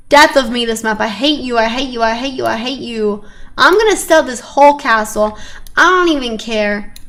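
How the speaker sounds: frustrated outburst. Real, not acted. Frustrated at the game map.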